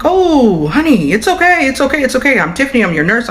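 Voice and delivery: high, cooing nurse soothing a patient; acted calm reassurance. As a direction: reassure her in a high voice, settling toward normal pitch. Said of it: "I'm calmly talking to her".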